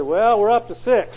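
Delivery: slow, high, loud report of a small win; drawn out with wry pride; mock proud friend. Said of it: "He said".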